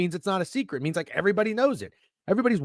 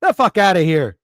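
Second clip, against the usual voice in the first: louder, sneering parody of the know-it-alls; mocking smugness; 6 dB louder than usual. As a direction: throw their smugness back at them.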